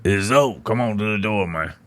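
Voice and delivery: a hint of the rapper's voice; imitating a rapper. Rapper calling him to the door, mild impression. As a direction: lightly mimic him calling through a door. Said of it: "He sounded like".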